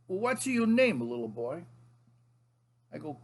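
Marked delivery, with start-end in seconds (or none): 0.1-1.6 loud, high mock-grandfather question, dropping at the end; grandpa impression. Grandfather questions his own grandson, hammed-up grandpa voice. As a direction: play the grandpa quizzing a child. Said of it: "He goes".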